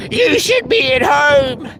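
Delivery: loud, slow, fed-up shout. Real, not acted. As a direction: yell it out in frustration. Venting, shouting at no one.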